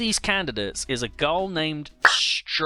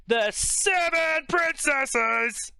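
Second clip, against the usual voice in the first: much higher and drawn out slowly, in disbelief; incredulous outburst; 12 semitones higher, much slower than usual. Real, not acted. Reader stunned by the plot, slow high disbelief. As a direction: stretch it out, can't believe it. Reading a baffling plot summary.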